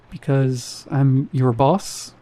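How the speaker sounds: slow, unsure questioning lift. Acted. Security guard asserting authority to new cashier, slowly and unsure. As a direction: make the statement sound like a question. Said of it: "He said it like a question".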